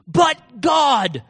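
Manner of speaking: high, loud preacher's shout; emphatic declaration. Acted. David answering news of a king out to kill him, shouted declaration. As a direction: shout both words as a firm answer. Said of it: "this is how he talked".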